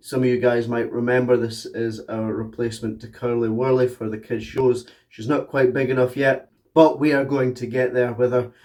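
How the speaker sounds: hoarse, hay fever throat; talking through a swollen throat; swollen tonsils voice. Real, not acted. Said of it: "apologising for my voice right now".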